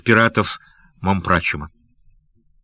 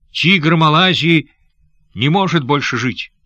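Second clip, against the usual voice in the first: despairing outcry; 6 semitones higher than usual. A narrator's reading. Despairing captive cries out.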